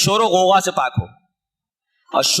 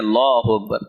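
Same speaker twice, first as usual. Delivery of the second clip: mock bad muezzin; 10 semitones lower than usual. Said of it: "مؤذن ایسے رکھے جاتے ہیں".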